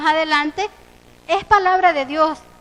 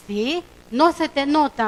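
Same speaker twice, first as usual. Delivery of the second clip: slow, drawn-out jab at a friend; mildly needling, stretching the words; pointed retort; slower than usual. Retold or imitated. Woman doubting her friend's Christianity, mildly pointed. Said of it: "le respondí de la misma manera".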